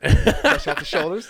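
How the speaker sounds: slow, loud, laughing through the words; loud slow laughing jab at convict ancestry; laughing question. Real, not acted. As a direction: laugh it out as you ask. Joking about convict ancestors.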